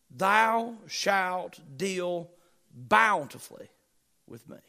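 very slow, each word stretched, fading to almost nothing; drawn-out reverence. Acted. Preacher lingers over David's last promise, very slow and fading. Preacher savours the final verse.

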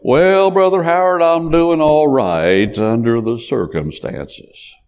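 imitating a half-hearted "doing all right"; resigned churchgoer. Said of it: "And they would say".

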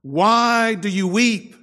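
pleading husband. Retold or imitated. Husband asking his weeping wife why, high and earnest. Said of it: "her husband said to her".

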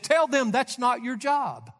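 slow, flat-out blunt answer. Retold or imitated. MacArthur answering the young pastor, bluntly and slowly. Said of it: "very bluntly said".

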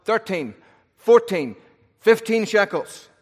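fast auctioneer calling out rising bids; auctioneer, building to a shout. Retold or imitated.

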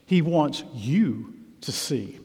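slow hushed whisper; soft, slow, breathy aside to the congregation. Real, not acted. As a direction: lean in and whisper it. Preacher drops to intimate point.

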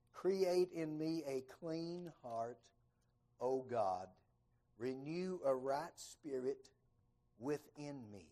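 slow, measured scripture reading; solemn psalm recitation. Acted. Preacher reading David's psalm, slow and solemn. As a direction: intone it like a prayer.

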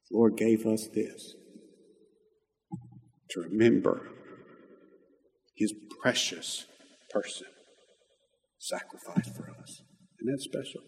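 hushed reverence. Real, not acted. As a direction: let each phrase fade into long pauses. Solemn close before the communion bread.

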